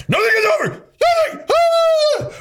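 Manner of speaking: high-pitched mock sobbing breakdown; John Rambo. Man imitating Rambo crying to prove men cry, hammed-up sobbing. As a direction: wail it like a crying action hero. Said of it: "Rambo cried".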